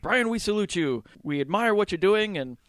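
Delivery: high, lightly voiced earnest salute; mock solemn rebels. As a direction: play pompous revolutionaries. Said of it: "they're like".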